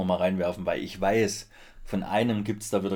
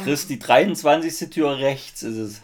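calling out; 5 semitones higher, 6 dB louder, slower than usual. Real, not acted. Ruft durch die Wohnung.

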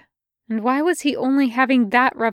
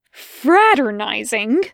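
slow, louder, venomous; spat with venom; 5 dB louder, slower than usual. Acted. Crowley mocking the angel's word, spitting it back with venom. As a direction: throw the word back at him. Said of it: "Crowley spat, and there was venom in his tone".

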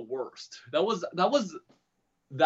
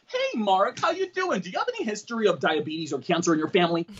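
high chirpy greeting, then a quick question; mock-casual date chat; 4 semitones higher than usual. Talking to Mark on a date, mock-casual. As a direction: breeze from hello into an intrusive question.

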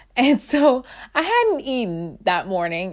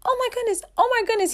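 high, breathless disbelief; overwhelmed; much faster than usual. Retold or imitated. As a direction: repeat it like it's too much to take in. Overwhelmed by the story.

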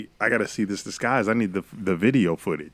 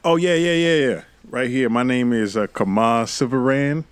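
football player voice; 4 dB louder than usual. Acted. Player talking his way past.

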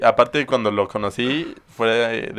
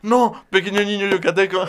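put-on Yucatecan accent; 9 semitones higher than usual. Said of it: "a mí no me sale".

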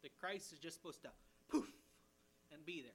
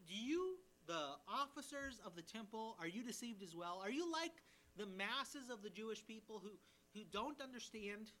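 derogatory; 3 semitones higher than usual. Acted. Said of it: "a very derogatory question".

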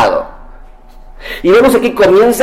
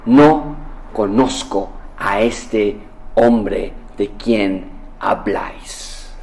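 negación; 8 semitones lower, 7 dB quieter, much slower than usual. Acted. Pedro niega, voz grave lenta.

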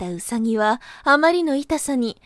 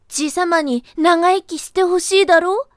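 higher, louder sly rabbit voice; coaxing rabbit; 5 semitones higher, 4 dB louder than usual. Acted. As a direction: rope him in with a rising question. Rabbit persuading Taro.

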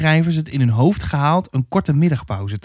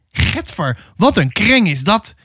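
high-pitched pained whine; wailing; 6 semitones higher than usual. A narrator's reading. Bitten drover complains about the girl, wailing. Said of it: "jammerde Willem".

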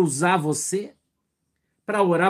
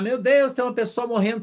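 crying out in alarm, louder and higher; mock panicked shout; 6 semitones higher, 3 dB louder than usual. Preacher voicing bystanders shouting about a dying man, mock alarm. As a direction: imitate people shouting at a crash site. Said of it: "todo mundo começa a gritar".

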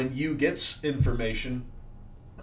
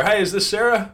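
mocking the supervisor; 9 semitones higher, 7 dB louder than usual. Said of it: "he's like".

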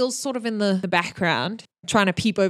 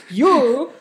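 loud, higher single word; orc barking; 5 semitones higher, 6 dB louder than usual. Acted. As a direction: snap at them. Orc pointing at someone.

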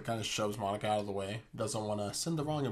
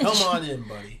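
hammy welcoming Ross; 4 semitones higher, 10 dB louder than usual. Retold or imitated. Voicing Ross inviting Joey in.

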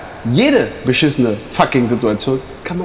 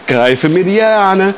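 slow, higher-pitched recital of each step; drawn-out announcing; 5 semitones higher, 3 dB louder, much slower than usual. Pretend. Friend showing he follows the instructions, drawn-out announcing. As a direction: stretch it out, pitch lifted. Narrates own climb, exasperated.

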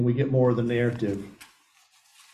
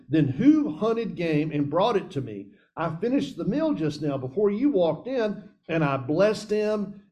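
trembling; 5 semitones higher than usual. Acted. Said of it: "Isaac started to tremble, shaking violently".

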